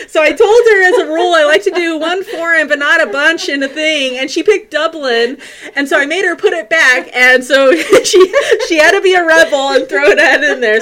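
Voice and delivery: laughing. Real, not acted. Laughing while telling mom story.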